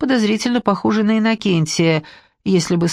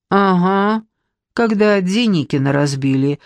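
snide. Acted. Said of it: "ехидно вставила брюнетка".

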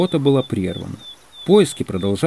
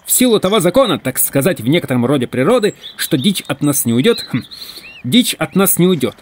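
raised-pitch orator's preamble; pompous speechifying; 5 semitones higher than usual. Acted. Hunter arguing for a snack break, speechifying. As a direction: build a grand argument, hemming along the way.

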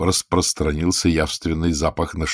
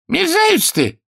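very high, unpleasant king's voice; nasty voice; 4 dB louder than usual. A narrator's reading. King insulting the healer in a nasty voice. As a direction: spit it out nastily. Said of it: "неприятным голосом".

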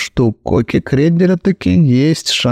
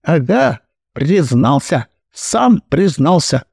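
gloating cry; 4 semitones higher than usual. Acted. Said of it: "закричала мадам Королек".

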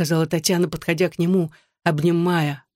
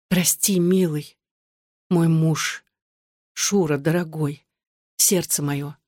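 whispered tenderly; slower than usual. A narrator's reading. Wife soothing her husband, mild tender whisper. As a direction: hush it into his neck, loving. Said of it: "шептала Татьяна в его шею".

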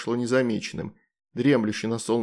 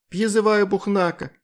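higher, quick call out; hasty shout; 8 semitones higher, 4 dB louder than usual. A narrator's reading. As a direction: call the summons in a hurry. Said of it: "поспешно выкрикнула". (поспешный выкрик, выше)

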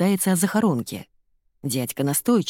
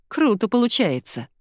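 ordinary delivery, nothing marked

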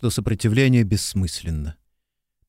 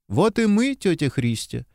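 loud call; 6 semitones higher than usual. A narrator's reading. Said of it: "громко сказала Мирра".

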